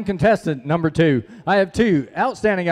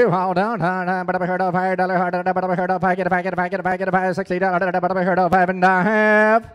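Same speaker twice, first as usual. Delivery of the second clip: rapid rhythmic auction chant; auctioneer; faster than usual. Acted. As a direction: roll the bid calls in a singsong patter. Auction bid calling chant.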